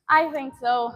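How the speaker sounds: laughing. Real, not acted. Repeating her own answer to chat with a slow laugh. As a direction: laugh it out, amused.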